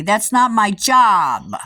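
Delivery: loud, slow mock yell; retold yell. Employee yelling at the customer, loud and slow. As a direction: bark it back at her slowly. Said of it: "yells at me".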